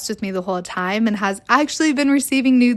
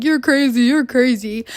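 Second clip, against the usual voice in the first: lightly mocking, raised-pitch imitation; mock accusation, pitched up a little; mocking retort; 3 semitones higher than usual. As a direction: mimic a dismissive accuser. Mocking boyfriends' denials.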